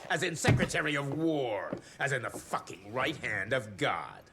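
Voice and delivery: whispered, menacing boast. Acted. Secretary threatening the hunter, whispered menace. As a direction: lean in and hiss the title.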